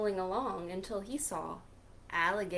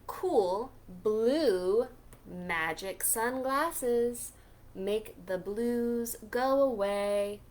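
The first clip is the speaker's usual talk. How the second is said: cool Grumpy Toad; slower than usual. Acted. Toad offering Pete the sunglasses, slow and cool. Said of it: "He said".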